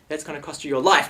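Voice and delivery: menacing shout. Retold or imitated. Threatening the customer.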